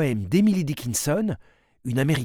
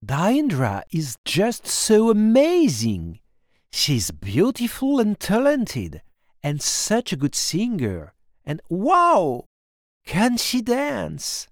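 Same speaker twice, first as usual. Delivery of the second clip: Lily's voice; 5 semitones higher than usual. Acted. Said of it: "Description of Diandra by Lily".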